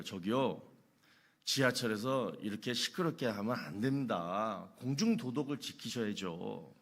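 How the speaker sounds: softly and cautiously, asking politely; a timid young Seoul man hushing strangers on the subway; 조심스럽고 공손하게; careful polite request. Retold or imitated. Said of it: "이렇게 조심스럽게 말하니까".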